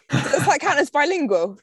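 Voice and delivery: laughing through the question; amused, laughing question. Real, not acted. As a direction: giggle the words out. Joking while laughing.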